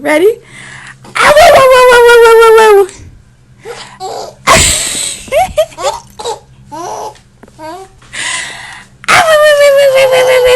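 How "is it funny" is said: higher, laughing sing-song question; playful baby talk. Acted. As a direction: tease the baby with a giggly lilt.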